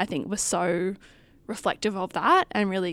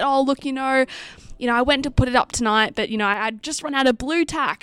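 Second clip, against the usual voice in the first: mildly higher, louder imitation of an apologetic caller; apologetic retelling; 4 semitones higher, 4 dB louder than usual. Older voter explains the missing blue tack to campaigner, apologetically. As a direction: retell her excuse with a lifted voice.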